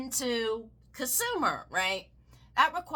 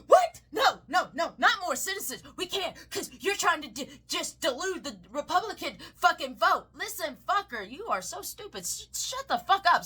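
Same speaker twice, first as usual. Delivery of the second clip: mock conservative; 5 semitones higher than usual. Voicing an angry conservative.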